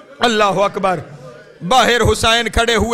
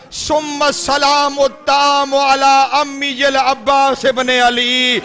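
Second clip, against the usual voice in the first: slow recitation; slower than usual. Acted. Reciting the letter in Arabic.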